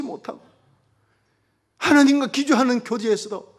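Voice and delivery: loud, high, fervent pulpit delivery; full-throated revival preacher; preaching at full force. Acted. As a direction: proclaim it to the whole congregation.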